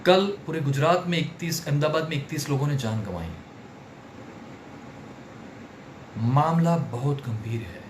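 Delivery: grave, measured news; serious tone. Shown as a demonstration. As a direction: let the gravity sink in. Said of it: "अगर मैं serious हो जाऊंगा". (गंभीर लहजे में)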